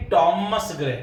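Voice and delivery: टॉमस ग्रे with a plain "t", silent h; correct pronunciation. Shown as a demonstration. Teacher giving students टॉमस ग्रे with a plain "t". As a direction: say टॉमस ग्रे starting with a clean "t". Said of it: "टी का sound है, एच उसमें साइलेंट".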